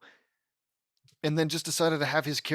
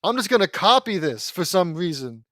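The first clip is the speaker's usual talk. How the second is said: mock careless resolve; 3 semitones higher, 6 dB louder than usual. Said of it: "he was just like".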